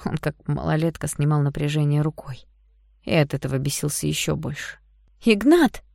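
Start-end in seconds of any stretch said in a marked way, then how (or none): 5.2-5.8 loud high call of his name; shout. A narrator's reading. Yana shouting after Ignat as he walks off, loud and high. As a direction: yell after him as he leaves. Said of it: "закричала Яна ему вслед".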